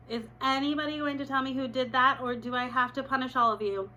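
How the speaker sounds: stern teacher threatening punishment; stern teacher threat. Acted. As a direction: threaten the whole class. Teacher threatens whole class.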